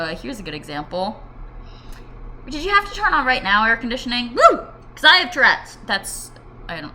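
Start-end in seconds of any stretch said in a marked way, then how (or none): 2.5-5.8 raised, higher voice with a sudden whoop; real yelling. Real, not acted. Interrupted by the air conditioning, yelling at it. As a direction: yell it at an appliance. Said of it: "I'm yelling at my air conditioning".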